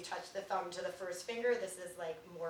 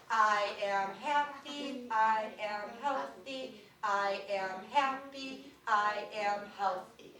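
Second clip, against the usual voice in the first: slow, deliberate, spoken out loud; slow out loud affirmation; much slower than usual. Shown as a demonstration. Teacher leading class to say it aloud slowly. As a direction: say each word slowly and clearly. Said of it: "Say it with me twice".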